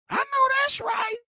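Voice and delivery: very high whooping approval; mock cheer. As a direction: shout it like a sassy cheerleader. Voicing women cheering.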